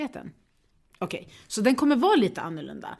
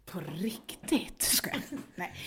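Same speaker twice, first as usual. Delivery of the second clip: mock secret whisper; 6 dB quieter, much slower than usual. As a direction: breathe it conspiratorially. Viskar på skämt. (spelad viskning)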